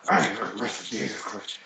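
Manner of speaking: imitated effortful gibberish muttering; wordless grumble of hauling yourself up; garbled grumbling outburst. Shown as a demonstration. Showing co-host how he gets up, garbled grumbling. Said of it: "a form of Tourette's when I try".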